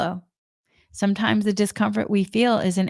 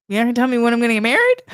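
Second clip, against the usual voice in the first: incredulous; 4 semitones higher, 4 dB louder, much faster than usual. Retold or imitated. Disbelief at psychic's news.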